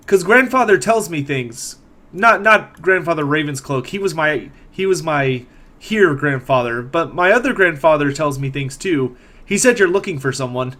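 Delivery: put-on slightly lifted voice of a matter-of-fact young girl; lightly voiced chirpy girl. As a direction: lightly play a girl sharing what she knows. Game master voices the girl.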